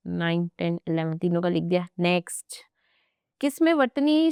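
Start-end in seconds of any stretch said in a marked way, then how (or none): 2.0-2.6 whisper. Real, not acted. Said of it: "whispered cue to move on".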